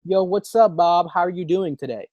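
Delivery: just a routine check-in, nothing urgent; casual unexcited greeting. Shown as a demonstration. Recruiter making a bland call to Bob, offhand and flat. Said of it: "And you're like".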